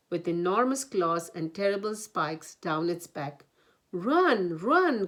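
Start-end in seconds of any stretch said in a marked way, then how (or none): 3.9-5.1 loud panicky cry, rising. A narrator's reading. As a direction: shout them into running. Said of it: "cried Hedgehog".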